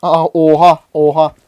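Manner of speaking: loud, startled "oha"; shocked cry. Real, not acted. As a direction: blurt it out in shock. Shocked at sudden game event. (şaşkınlıkla bağırarak)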